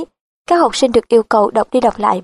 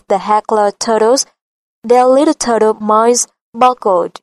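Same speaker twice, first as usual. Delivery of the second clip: slow Midwestern American, T softened to D; a Minnesota native's model reading; Minnesota American accent. Shown as a demonstration. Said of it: "đọc mẫu cho họ bằng giọng chuẩn". (giọng Minnesota miền Trung Tây, đọc chậm)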